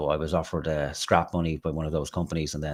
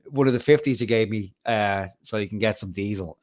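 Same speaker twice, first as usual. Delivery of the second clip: exasperated protest; 5 semitones higher, 5 dB louder than usual. Retold or imitated. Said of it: "I said, like".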